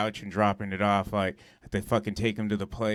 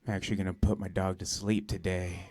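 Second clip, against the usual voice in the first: imitating a downcast friend, softly; hushed, subdued delivery of bad news; mock sad; 3 semitones lower, 6 dB quieter than usual. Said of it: "gets all sad".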